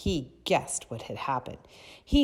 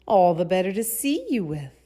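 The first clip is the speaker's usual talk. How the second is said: wobbly voice; 5 semitones higher, 10 dB louder than usual. Acted. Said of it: "the wolf replied in a wobbly voice".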